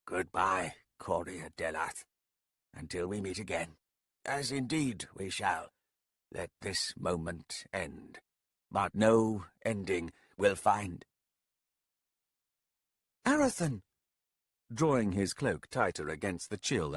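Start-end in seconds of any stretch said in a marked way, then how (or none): 0.0-11.0 tearful farewell. Acted. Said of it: "Eyes filling with tears". 13.2-13.8 calling out. Acted. Calling out to him.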